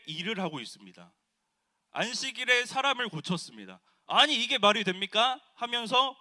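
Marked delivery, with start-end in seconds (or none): 4.1-5.4 indignant shout. Retold or imitated. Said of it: "무리들에게 소리를 치고 있습니다".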